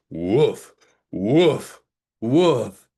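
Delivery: a friendly pup woofing; dog bark. Acted. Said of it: "it sounded like".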